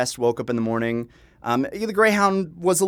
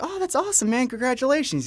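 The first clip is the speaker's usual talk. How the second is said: excited; 11 semitones higher than usual. Retold or imitated. Congratulating the expectant dad.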